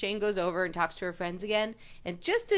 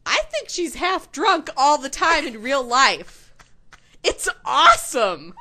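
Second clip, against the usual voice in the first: louder, slower, laughing delight; 6 semitones higher, 9 dB louder, slower than usual. Real, not acted. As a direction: gush with laughter.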